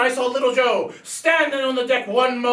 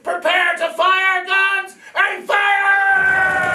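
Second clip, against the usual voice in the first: captain's order; 4 semitones higher, much slower than usual. Acted. Captain orders the cannons fired.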